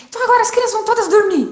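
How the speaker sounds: loud, high, fast command; retold bossy order. Mother retelling her bedtime order in a quarrel, bossy. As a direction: lay down the law, high and hurried.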